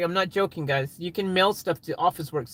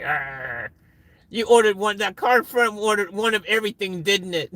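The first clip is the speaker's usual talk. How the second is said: annoyed customer; 3 semitones higher than usual. Retold or imitated. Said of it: "The car behind is pissed off".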